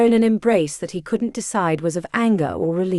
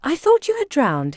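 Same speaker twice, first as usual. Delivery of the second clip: roared; 7 semitones higher than usual. A narrator's reading. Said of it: "he roared".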